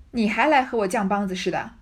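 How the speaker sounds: 你还来和我犟梆子似的 barked loud, stress on 来; old woman scolding a talking-back girl, stress on 来. Acted. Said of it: "骂道". (大声骂“你还来和我犟梆子似的”)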